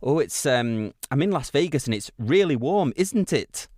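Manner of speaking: lightly imitated Welsh singer greeting a crowd; a hint of Welsh lilt, lifting on "isn't it"; Welsh accent, imitating a famous Welsh singer. The singer welcomes the Las Vegas audience, light Welsh accent. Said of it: "Welsh phrases to say".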